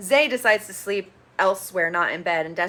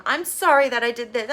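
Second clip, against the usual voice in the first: mock whiny apology; 3 semitones higher, 4 dB louder than usual. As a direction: imitate a childish sorry. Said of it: "So childish".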